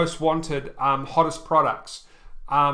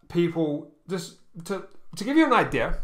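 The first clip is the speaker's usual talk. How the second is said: halting, repeating words; stuttering. Real, not acted. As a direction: stumble over the words. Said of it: "I know I'm kind of, like, stuttering".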